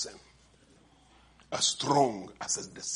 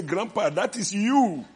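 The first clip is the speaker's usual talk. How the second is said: put-on child's voice; 8 semitones higher, 5 dB louder than usual. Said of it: "Edna, who say".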